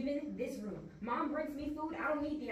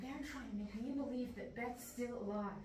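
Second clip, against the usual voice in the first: soft, secretive paranoid whisper; 5 dB quieter than usual. Acted. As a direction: confide the plot under your breath. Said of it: "Will you please stop whispering?".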